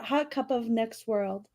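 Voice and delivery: soft unvoiced whisper; whispered aside. Real, not acted. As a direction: breathe it out as a secret. Host whispering a joke line.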